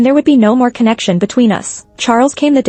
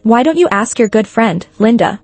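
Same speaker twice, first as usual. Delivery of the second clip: mocking. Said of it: "Cindy mocked".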